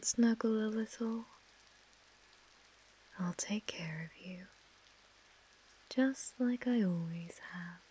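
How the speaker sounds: possessive mistress, whispering and murmuring; whispered asmr role play. Acted. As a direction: coo and whisper to a captive. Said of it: "my A S M R roleplay".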